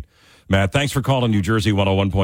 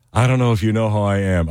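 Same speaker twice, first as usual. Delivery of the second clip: bad British accent. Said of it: "I can't do a British accent".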